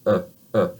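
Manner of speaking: uh as a loose relaxed neutral vowel; French schwa. Shown as a demonstration. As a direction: let the jaw hang and say uh. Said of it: "completely relax your mouth".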